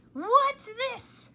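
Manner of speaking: very high, loud accusing demand; angry demand. Acted. Mother pointing at the typewriter, angry. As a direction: confront her sharply.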